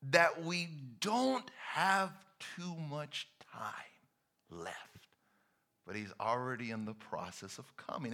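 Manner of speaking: fading to a whisper; soft urgent whisper; hushed warning. Acted. Preacher drops to hush.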